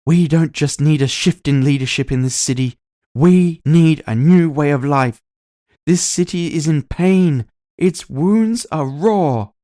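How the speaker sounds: loud, high orator, slowing on key lines; growing intensity. Acted. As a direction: build the fervour as the crowd peaks. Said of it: "Her voice grew in intensity".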